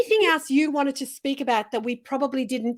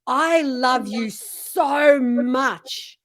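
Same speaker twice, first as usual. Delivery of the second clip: tender self-talk; much slower than usual. Shown as a demonstration. Speaking lovingly to her own reflection, tender and slow. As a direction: say it gently into the mirror. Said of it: "I look at myself and I say".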